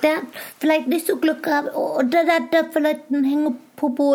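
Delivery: put-on child voice. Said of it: "in Kinderstimme".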